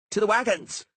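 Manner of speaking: high, loud rallying yell; rally the men to the wagons; yelled order. A narrator's reading. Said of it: "Sheepbagger yelled".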